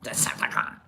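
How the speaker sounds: breathy whispered Decepticon. Acted. Vlogger answers Autobot with a whisper. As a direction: whisper it like a secret.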